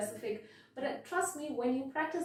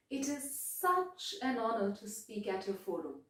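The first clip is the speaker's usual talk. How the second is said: "such" gently emphasised; soft emphasis on "such"; stress on such; 4 dB quieter than usual. Shown as a demonstration. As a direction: press a little on "such". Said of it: "that emphasis on such".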